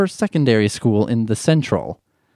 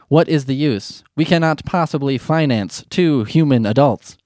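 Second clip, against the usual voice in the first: stiff robot mother voice; robot mom voice. Pretend. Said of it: "Mombot said".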